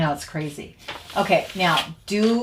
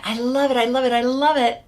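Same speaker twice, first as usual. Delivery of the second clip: high, louder mock insistence; insistent brain voice; 7 semitones higher, 4 dB louder than usual. The smoker part of the brain insisting, mock-gushing. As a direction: chant it like a craving that won't stop. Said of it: "part of our brain saying".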